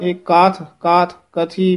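"ਕਾਥ, ਕਾਥ, ਕਥੀ" with long vowel and light th; soft, open words. Shown as a demonstration. Teacher showing soft pronunciation, long open "ਕਾਥ". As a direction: keep th single in "ਕਾਥ". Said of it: "ਪੋਲੇ ਹੀ ਪਦ ਬੋਲਨੇ ਹਨ".

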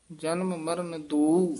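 short pause after ਦੋ, then go on. Shown as a demonstration. Student told by teacher to pause, with a short pause after ਦੋ. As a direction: hold a brief ਠਮਕ after ਦੋ. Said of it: "ਇੱਥੇ ਠਮਕ ਲਾ ਦੇਣੀ ਹੈ".

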